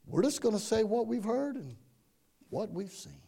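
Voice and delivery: soft, low, unbothered reply; real calm. Acted. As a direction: answer gently, without any alarm. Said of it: "they just said real calmly".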